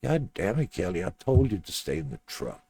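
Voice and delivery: high, loud exasperated telling-off; angry scolding. Acted. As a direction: snap at her for disobeying. John scolds Kelly for leaving.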